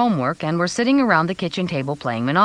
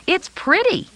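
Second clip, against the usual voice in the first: put-on little boy voice; 14 semitones higher than usual. A narrator's reading. Little boy admires ring.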